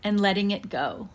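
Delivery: unhurried breathing guide with long pauses; guided meditation. Real, not acted. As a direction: ease them gently into relaxation, pausing between breaths. Leads a guided breathing visualization.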